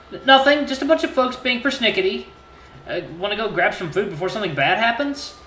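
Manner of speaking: stumble, then change the subject; stammering awkward suitor. Acted. Flustered character covering up.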